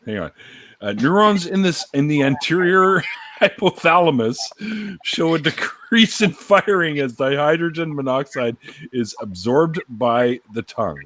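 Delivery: slow, deliberate scare-article reading; mock-serious read-aloud. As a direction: read it like an ominous science warning, amused. Reads mock warning aloud.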